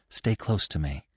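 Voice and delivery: whispered. A narrator's reading. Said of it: "his mother whispered in his ear".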